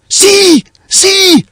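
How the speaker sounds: very high, loud, drawn-out scream; terrified shriek. A narrator's reading. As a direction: shriek it out in alarm at a dreadful sight. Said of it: "cried he, shrieking in my ears".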